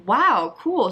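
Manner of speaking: sarcastic wow. Retold or imitated. Reacting to the racist video with sarcastic praise. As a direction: fake enthusiasm, pure sarcasm. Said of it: "and I was like".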